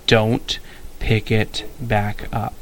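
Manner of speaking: cold, slow warning. Acted. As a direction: say it slow and icy. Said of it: "James said coldly".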